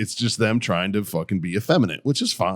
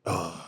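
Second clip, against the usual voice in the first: soft, low imitated waking groan; 4 semitones lower, 10 dB quieter than usual. Guy waking up to face the day, soft groan. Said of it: "a guy waking up and he was like this".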